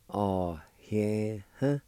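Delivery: Oh, yeah, huh said as one Cherokee word, ah-eh-huh; teacher sounding out Oh, yeah, huh; Cherokee pronunciation. Shown as a demonstration. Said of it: "It's pronounced like this".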